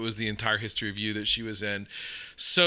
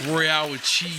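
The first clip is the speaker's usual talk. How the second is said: mock East End Cockney, pitched up; 4 semitones higher, 4 dB louder than usual. Shown as a demonstration. Guest playing along with the Cockney game, East End accent. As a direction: toss it out like an East Ender. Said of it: "It's like you live in the East End".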